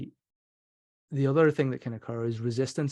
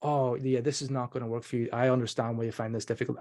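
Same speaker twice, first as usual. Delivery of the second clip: rolling with resistance demo. Shown as a demonstration. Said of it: "we roll with resistance".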